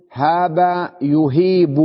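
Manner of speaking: هاب يهيب drawn out slowly, long ee in يهيب; يهيب said slowly as yu-HEEB-u; correct verb form. Shown as a demonstration. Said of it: "لا تقول هاب يه".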